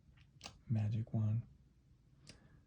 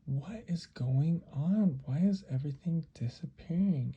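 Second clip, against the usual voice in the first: baffled exclamation; 4 semitones higher than usual. Acted. Anna exclaims as things vanish.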